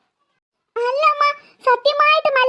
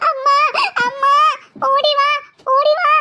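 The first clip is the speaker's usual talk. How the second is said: screaming for mum; 3 semitones higher than usual. Acted. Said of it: "എന്തിനാടി നീ ഇങ്ങനെ അലറി കൂവിയത്".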